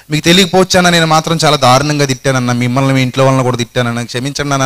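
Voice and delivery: mock tearful apology. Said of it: "అని పట్టుకుని ఏడ్చాడు".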